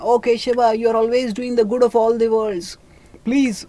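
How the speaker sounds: retold call to a deity, lifted in pitch; imitated calling out. Dhritarashtra appeals to Krishna to show his form, calling out. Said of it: "Dhritarashtra calls out to Krishna".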